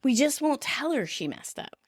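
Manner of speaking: high-pitched, insistent protest. Retold or imitated. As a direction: wave away the objection, starting high. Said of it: "Ross protests".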